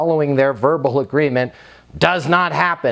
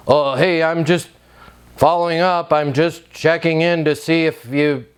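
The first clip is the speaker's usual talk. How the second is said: desperate follow-up. Shown as a demonstration. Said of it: "That's desperate, that's gross, that's pathetic".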